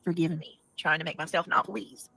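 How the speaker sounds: talking around a lozenge, softly; lozenge in mouth. Real, not acted. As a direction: lozenge tucked in cheek. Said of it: "I have a lozenge in my mouth".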